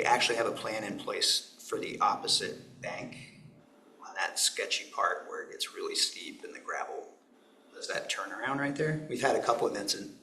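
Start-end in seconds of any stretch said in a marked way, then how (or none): 4.0-7.0 hoarse, losing his voice; raspy whisper. Real, not acted. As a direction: talk through a worn-out raspy voice. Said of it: "I'm losing my voice here".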